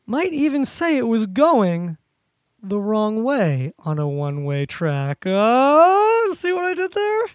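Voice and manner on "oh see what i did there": smug. Real, not acted. Pleased with his own pun.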